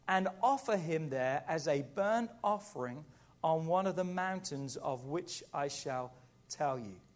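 slow, deliberate Bible reading; solemn scripture reading. Acted. Preacher reads God's command to Abraham, solemn and slow. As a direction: weigh each phrase, drawn out with pauses.

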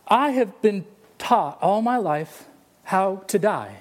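put-on slow, measured elderly preacher's reply; lightly voiced old man, pausing between phrases; Billy Graham. Father answering his daughter, slow and deliberate. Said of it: "And Billy said".

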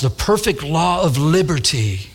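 slow, relishing repeat of the phrase; savouring the phrase. Shown as a demonstration. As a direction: linger slowly over "perfect law of liberty". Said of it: "don't you like how that, that, that sounds?".

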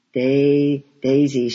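put-on loud delighted call of a little girl; excited child call. A narrator's reading. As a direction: call out the word with joy. Child calls out daisies.

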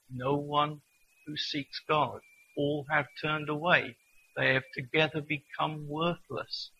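slow, measured reading from Romans; solemn Bible reading, unhurried; scripture reading. Acted. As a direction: let each line land slowly. Reads scripture passage aloud.

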